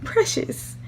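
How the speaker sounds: high, slow, tearful theatrical aunt; hammed-up crying aunt; dramatic aunt. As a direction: wail it like a melodramatic aunt. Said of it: "very dramatic".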